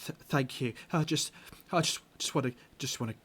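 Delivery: stammering, pleading captive woman; scared captive. Acted. Frightened prisoner begs the rescuers, stammering pleas. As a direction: beg the strangers for help, voice shaking.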